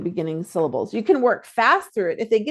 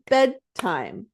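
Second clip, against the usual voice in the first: clapping the syllables; 3 semitones lower than usual. Shown as a demonstration. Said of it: "is to clap".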